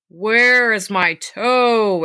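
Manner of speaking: slow moan leaning on where; a dead thing calling through the house; slow corpse moan, nearer still; ghostly groan, closer. Acted. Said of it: "it groaned".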